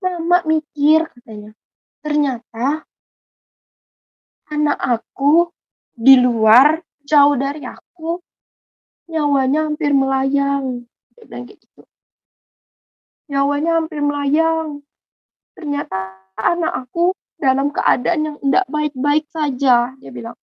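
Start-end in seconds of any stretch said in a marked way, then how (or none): 0.1-1.1 slow, halting words of a worried mother; retold tearful mother. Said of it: "Sampai mama saya nangis". 2.1-10.8 slow, halting grief with long pauses; retold tearful mother. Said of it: "Sampai mama saya nangis". 13.3-19.9 slow, halting grief with long pauses; retold tearful mother. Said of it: "Sampai mama saya nangis".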